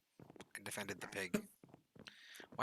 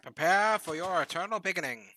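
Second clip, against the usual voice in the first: villain voice; 7 semitones higher, 10 dB louder than usual. Pretend. Villain threat.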